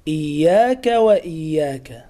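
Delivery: "إياك" and "وإياك" with held double y; doubled ya. Shown as a demonstration. Teacher repeats the correct shadda on "إياك". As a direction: press firmly on the y in "إياك". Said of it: "لابد من تشديد الياء".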